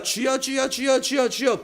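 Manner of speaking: high, pleading cries of Lord, Lord; imitated pleading cry to the Lord; pleading prayer cry. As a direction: mimic a desperate worshipper calling out. Imitating desperate repeated prayer.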